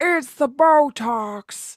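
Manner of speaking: impression voice with stretched-out A vowels, said aloud. Trying out the long A sounds as Jennifer Coolidge: Jennifer Coolidge impression. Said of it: "those long A's".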